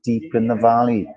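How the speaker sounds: lightly worked Welsh accent. Shown as a demonstration. Host telling how he picked it up, Welsh accent. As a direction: talk in a practised Welsh accent. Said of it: "my Welsh accent was almost, almost bang on".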